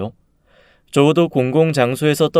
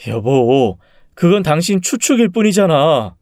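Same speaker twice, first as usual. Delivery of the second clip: higher, frustrated objection to spouse; exasperated protest; 4 semitones higher, 3 dB louder than usual. Acted. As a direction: protest to your wife in frustration. Husband disputes wife's guess.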